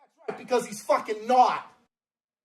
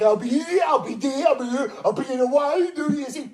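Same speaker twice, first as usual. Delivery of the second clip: mock Bill Maher; 3 semitones higher than usual. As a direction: shout the tour dates mockingly. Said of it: "that's what he looks like".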